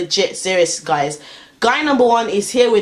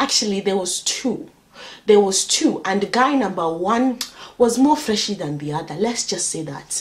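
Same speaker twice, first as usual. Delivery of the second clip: fake Nigerian accent, sustained throughout. Telling viewers a story about two men on the road: put-on Nigerian accent. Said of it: "I don't even know why I'm doing this accent, because they weren't actually Nigerian".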